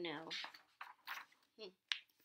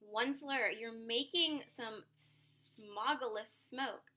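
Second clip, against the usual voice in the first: querulous croak; 3 semitones higher, slower than usual. Acted. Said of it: "with a querulous croak".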